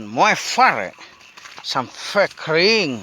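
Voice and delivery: slow, stretched-out words; drawn-out announcing. Real, not acted. Vlogger telling viewers the paddy-drying plan, drawn-out announcing. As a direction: draw each word out for the viewers. Announcing the day's farm task.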